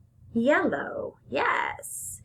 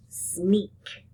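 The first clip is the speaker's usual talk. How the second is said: whispered word. Shown as a demonstration.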